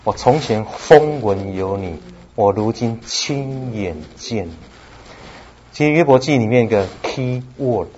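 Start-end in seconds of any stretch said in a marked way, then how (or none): 0.0-4.6 slow, hushed and sincere; Job's humble words. Acted. Job humbly answers God, slow and sincere. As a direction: let each word land slowly, humbled. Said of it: "约伯说了一句话".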